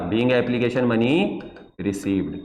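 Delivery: slow, each word drawn out for copying; slow dictation. Shown as a demonstration. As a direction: repeat it slowly so they can write. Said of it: "pause करके copy करते रहना".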